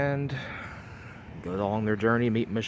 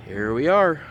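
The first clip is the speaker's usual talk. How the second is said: higher, louder groaning zombie; 6 semitones higher, 7 dB louder than usual. Acted. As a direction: moan it like the undead. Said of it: "You guys like my zombie impression?".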